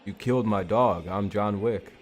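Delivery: lightly voiced action-hero impression; half-hearted film star imitation; Keanu Reeves. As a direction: attempt a deadpan movie avenger. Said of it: "my Keanu Reeves impersonation".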